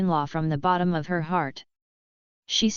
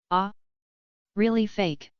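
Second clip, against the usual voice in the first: casual surprise; 2 semitones higher than usual. Acted. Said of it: "said casually".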